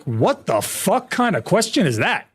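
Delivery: retold indignant disbelief; incredulous. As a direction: ask it slowly, as if baffled by the officer. Retold disbelief at officer's question.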